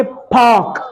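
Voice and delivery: British "पार्क" with silent R and long vowel; British pronunciation. Shown as a demonstration. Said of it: "British में बोलेंगे".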